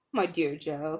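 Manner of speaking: put-on "Joe" said like jel for girl; a lightly voiced uncle saying "Joe"; old-fashioned girl. A narrator's reading. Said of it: "only way he pronounced girl".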